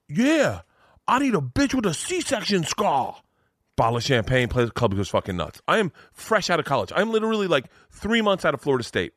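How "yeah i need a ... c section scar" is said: high-pitched, drawn-out catcall; Tracy Morgan. Retold or imitated. Celebrity catcalling for the room's amusement, playful. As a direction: holler it playfully for the whole room. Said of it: "almost like fun catcalling for the room".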